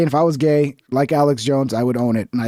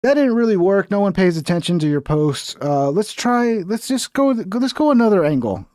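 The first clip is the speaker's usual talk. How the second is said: higher, scheming mock agent voice; mock fed handlers; 4 semitones higher than usual. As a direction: play the handlers plotting a new angle. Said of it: "they're like".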